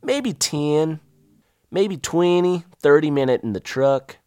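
slow, high Southern woman voice; old Southern woman. Retold or imitated. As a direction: drawl it like a country lady. Voicing the local woman.

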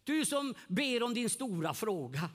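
slow, measured prophetic address. Retold or imitated. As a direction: intone the call to the one praying, slowly. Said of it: "säger en längst bak i lokalen".

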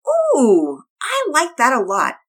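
put-on high, bright-eyed girl voice; a delighted little girl; little girl Penelope.

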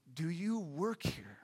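put-on slow, timid whisper of a shy girl; retold shy girl whispering, slowed down; whispered question. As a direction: breathe it out without voice, hesitantly. Shy girl approaching him.

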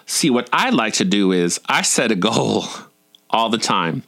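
put-on southern drawl breaking into a chuckle. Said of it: "also in a southern drawl".

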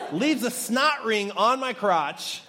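laughing. Real, not acted. Laughing at own elephant story.

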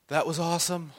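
high, laughing through it; laughing son. Retold or imitated. Little son loving the sword fight, quoted laughing. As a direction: laugh while quoting the kid's delight.

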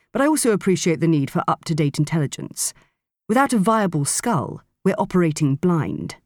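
calm, assured gentleman voice; smooth confident man. Acted. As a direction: reassure with easy confidence. Leganva voiced by narrator.

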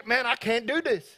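high-pitched, comic 'I can't' voice; exaggerated high voice of self-doubt; odd put-on doubter voice. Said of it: "I don't know why I'm talking like this".

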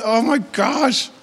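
mock crying. Preacher imitating a mom in childbirth, mock crying. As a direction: wail it slowly as if in labor. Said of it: "she's crying".

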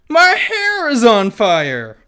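high, loud panicked scream; panicked shriek. Acted. Princess screams in fan fiction.

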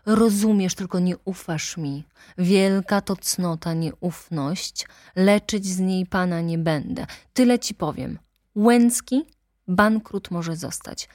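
heated attorney denouncing the nobles; ranting lawyer. Acted. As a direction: lash out at the aristocracy. Lawyer presses his point.

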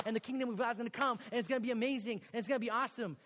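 building excitement over a grand plan; retold youthful enthusiasm, rising as it goes; super excited. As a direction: get carried away pitching the vision. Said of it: "super excited about this".

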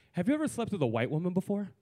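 deadpan, matter-of-fact question; straight-faced question. Retold or imitated. Woman stopping him mid-hookup, straight-faced blunt question. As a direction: ask it straight, with no cushioning. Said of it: "straight face, no chaser, she goes".

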